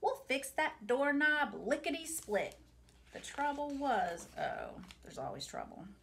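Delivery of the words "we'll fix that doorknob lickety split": mock holler. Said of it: "Grandpa hollered".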